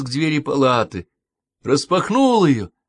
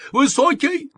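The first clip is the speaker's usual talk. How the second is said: put-on much higher, tender like a young lady; high girlish voice; 11 semitones higher than usual. A narrator's reading. Nanny caught lying, imitating a girlish voice high up. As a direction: lift it up high and dainty like a girl's voice.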